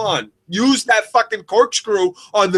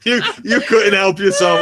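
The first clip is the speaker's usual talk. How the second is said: laughing tease; 3 semitones higher than usual. Real, not acted. Laughing teasing friend.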